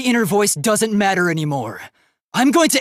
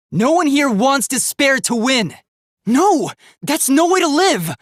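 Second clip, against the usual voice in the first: higher and louder, refusing; defiant outburst; 7 semitones higher, 3 dB louder than usual. Acted. Robot refusing a life imprisoned in despair, loud defiance. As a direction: throw the refusal back hard.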